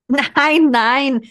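loud protest over applause; protesting loudly. Acted. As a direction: insist over the noise of the crowd. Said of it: "beteuerte die Frau über den Applaus hinweg".

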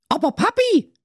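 put-on high, pleading girl voice; whiny teenage daughter. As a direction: play the spoiled fairy-tale daughter wishing aloud.

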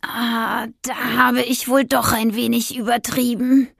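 hesitant, guilty admission; sheepish hedging. Acted. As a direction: squirm a little as you admit it. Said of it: "druckste sie herum". (verlegen herumdrucksend)

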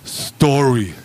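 put-on drawn-out, slow drunken one-word answer; drunk Chris. Drunk friend reveals his plan to the bouncer, drawn-out drunken delivery. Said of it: "dann sagt Chris folgendes Wort".

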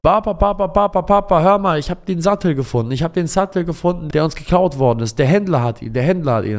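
very high, loud breathless calling; a boy bursting with news; excited child. Acted. Son calls father after finding the saddle, high excited shout.

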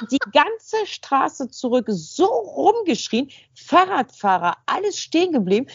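slow, high, laughing through the words. Real, not acted. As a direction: giggle while telling it. Laughing while retelling.

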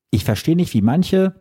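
worked up, pitch climbing high; heated outburst, voice rising; emotional. Real, not acted. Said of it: "ich werde ein bisschen emotional".

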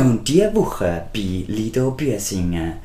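slow, announcer-style promo read; radio voice. Pretend. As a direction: read it like a radio host plugging a show. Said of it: "Ich habe plötzlich meine Radiostimme angemacht".

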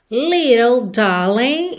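Little with the T as a quick tapped R sound; flapped T. Shown as a demonstration. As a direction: tap the T in Little like American English. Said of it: "little, rarará, no T". ("Little" com T batido)

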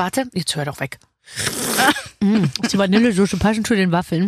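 eating waffles while talking; mouth full. Real, not acted. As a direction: talk through a bite of waffle. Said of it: "das macht die Sache so leifig".

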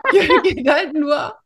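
laughing. Real, not acted. Laughs while explaining.

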